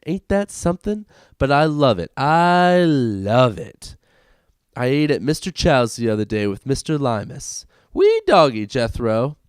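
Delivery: put-on hick tourist bragging in a Southern accent; southern rube accent. Reading the boss's lines as a bragging Southern rube. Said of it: "sounded and acted like a real rube tourist with his southern accent".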